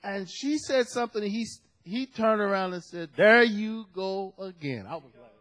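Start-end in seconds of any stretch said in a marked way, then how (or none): 3.2-4.8 slow, drawn-out scolding; imitating a weary telling-off; mock exasperated rebuke. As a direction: stretch it out like a fed-up pastor. Acts out pastor rebuking gossiping sister.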